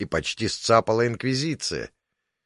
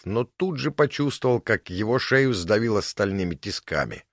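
usual speaking voice

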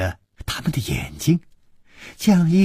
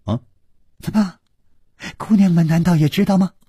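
mock surprise; 7 semitones higher, faster than usual. Hero feigns surprise.

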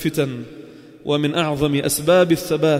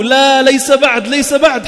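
firm refusal; 6 semitones higher, 7 dB louder, slower than usual. Acted. Imam refuses the devil.

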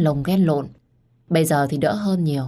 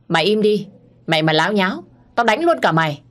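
snarling threat; 3 semitones higher than usual. Acted. Older brother yelling at the maid to shut up, furious. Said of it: "Anh Công lúc này nạt nộ nó".

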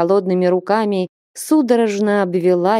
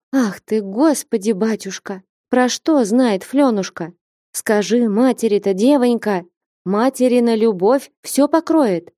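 mother begging through tears, voice rising high; desperate tearful entreaty; tearful pleading; 4 semitones higher than usual. Acted. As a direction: plead with her daughter, near crying. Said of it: "Со слезами молила".

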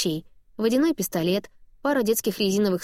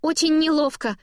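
higher, bubbly mother owning up; embarrassed mom voice; 8 semitones higher, 3 dB louder than usual. A narrator's reading. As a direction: chirp it out, half mortified. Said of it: "Её голос вдруг прорывается".

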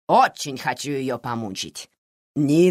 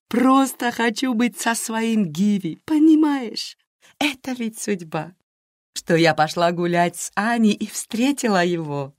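dreamy; 7 semitones higher than usual. Acted. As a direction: sigh it out like a girl in love. Naira dreamy about Givi.

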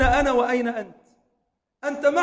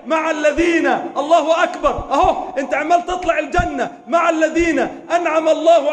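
louder, higher preaching with shouts; rousing exhortation; 5 semitones higher, 6 dB louder than usual. Acted. Preacher urging listeners toward paradise, exultant. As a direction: urge them on with joy.

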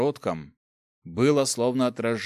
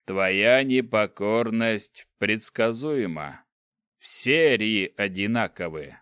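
slow, cold dark lord voice; lightly voiced menacing ruler; menacing overlord; slower than usual. Overlord speaks to hero.

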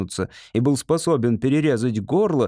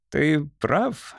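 higher, smiling agreement; lightly voiced, pleased agreement; broad smile; 4 semitones higher than usual. A narrator's reading. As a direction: agree through a wide smile. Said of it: "широко улыбнулся Талис".

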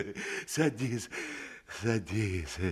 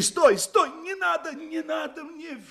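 alarmed shout; 8 semitones higher than usual. Acted. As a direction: stop him in a rush. Master tries to stop the hawker.

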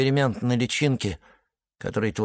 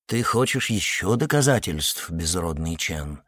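peaceably; 6 semitones lower, 3 dB quieter than usual. A narrator's reading. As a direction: ask it calmly and evenly. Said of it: "вполне миролюбиво уточнил инквизитор".

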